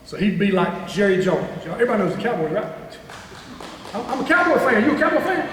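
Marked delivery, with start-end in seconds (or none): 3.9-4.8 a fan owning it, a touch louder and higher; proudly claiming the team, raised pitch; proud fan declaration. Real, not acted. Speaker to students, admitting Cowboys love, proud and lifted. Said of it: "you got me excited about the Cowboys". 4.8-5.5 high, bright-eyed question to the crowd; eagerly asking who else is a fan. Real, not acted. Speaker asking the crowd about Cowboys fans, eager and high. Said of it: "you got me excited about the Cowboys".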